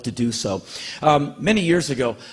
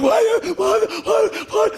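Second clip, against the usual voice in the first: whining why; 3 dB louder, slower than usual. Retold or imitated. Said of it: "I said".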